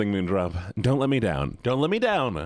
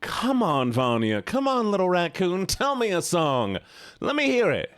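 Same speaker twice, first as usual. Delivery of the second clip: coaxing; 5 semitones higher than usual. Real, not acted. Coaxing viewer to suggest song.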